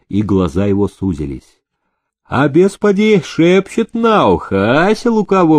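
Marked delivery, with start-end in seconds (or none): 2.2-5.6 smirking. Acted. Master slyly needling the groom with a smirk. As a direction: let the grin into the words. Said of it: "ухмыльнулся Демидов".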